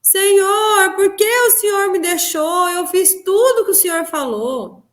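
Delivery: high, anguished wail to Jesus, slow in places; reliving a desperate sobbing plea; crying out to Jesus. Retold or imitated. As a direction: cry out to the Lord as if abandoned. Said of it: "e eu gritava, falava".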